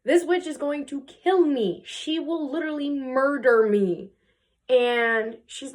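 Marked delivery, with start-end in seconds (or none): 0.0-4.1 higher-pitched, mock-dramatic dread; hammed-up fear; frightened husband. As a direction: play a husband fearing for his life. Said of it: "the husband's very feared".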